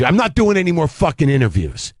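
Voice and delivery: high-pitched mock angry rant; imitating a yell. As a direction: play the cranky old comic snapping at a stranger. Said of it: "Shecky Greene yelling at me".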